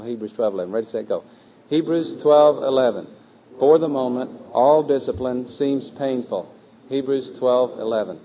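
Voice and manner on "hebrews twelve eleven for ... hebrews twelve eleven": slow, measured choral recitation; group recitation lead. Acted. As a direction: lead the class word by word, each phrase set apart.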